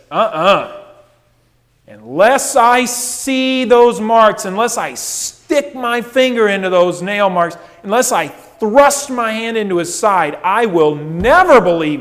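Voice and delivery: loud, insistent, hammering each unless; emphatic refusal. Retold or imitated. Thomas refusing the disciples' news, loud and emphatic. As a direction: demand proof before you'll ever believe. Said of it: "he says".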